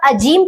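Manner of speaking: "अजीम" mispronounced "ajeem"; wrong j sound. Shown as a demonstration. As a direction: say "अजीम" with a hard j. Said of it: "यह गलत हो जाएगा". ("अजीम" में "ज", ग़लत उच्चारण)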